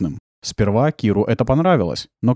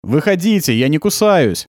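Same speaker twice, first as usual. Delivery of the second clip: raised, coaxing call; loud call; 6 semitones higher, 3 dB louder than usual. Acted. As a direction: call the hiding kids out loudly. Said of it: "громко сказал". (громкий зов, чтобы дети вышли)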